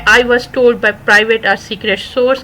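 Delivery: very slow, careful words; slow definition. Shown as a demonstration. Teacher explains an idiom's meaning very slowly. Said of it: "تو یہ وہی ہے".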